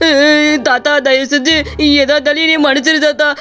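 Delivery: frightened pleading. Acted. Shopkeeper begs the ghost.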